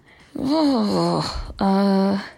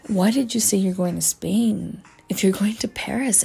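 hushed question; 3 semitones higher than usual. Retold or imitated. Confronting mom, hushed.

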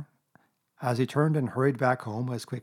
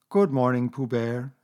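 a hint of a mopey old donkey; gloomy Eeyore; 4 dB louder than usual. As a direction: greet him as if nothing could cheer you. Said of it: "said Eeyore gloomily".

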